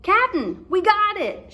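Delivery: high, loud excited call; pirate yelling good news; shouting pirate. Acted. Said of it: "shouted Pinky".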